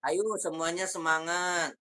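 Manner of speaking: unenergetic, level-toned pep talk; nada lempeng. Shown as a demonstration. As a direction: cheer them on without any enthusiasm. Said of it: "Tapi nadanya lempeng". (ajakan semangat dengan nada datar)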